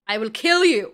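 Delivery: low, loud mock menace; mock threat. Sarah threatens the man she holds up, in hammed-up menace. Acted threat in film retelling.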